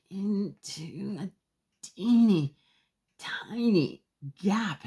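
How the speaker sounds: high squeezed little voice; squeezed tiny voice. Acted. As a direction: shrink the voice to fit the gap.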